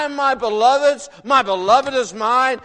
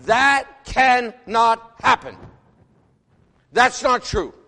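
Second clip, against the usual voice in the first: put-on young skeptic's scoff; 2 semitones higher, 5 dB louder, slower than usual. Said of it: "And I said".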